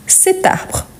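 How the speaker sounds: "cet arbre" linked through the t; teacher's joined-up "cet arbre"; liaison. Shown as a demonstration. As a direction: carry the t of "cet" onto "arbre". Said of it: "Oui, on fait la liaison".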